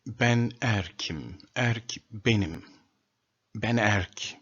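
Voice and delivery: slow spelled-out Turkish. Shown as a demonstration. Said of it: "In Turkish, we say".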